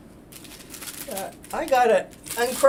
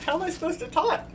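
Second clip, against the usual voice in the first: mouth full; 7 semitones higher, faster than usual. Real, not acted. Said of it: "Now I got my mouth full".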